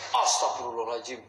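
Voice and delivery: real startled exclamation. Real, not acted. Man jolted while questioning the crying ghost, startled. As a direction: blurt it out as if jolted. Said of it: "Buat terkejut aja".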